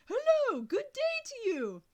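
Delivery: loud, high, slow shout into the phone; boy shouting down the phone to a deaf man. A narrator's reading. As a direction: bellow so a deaf man can hear. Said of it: "Oh, that's better".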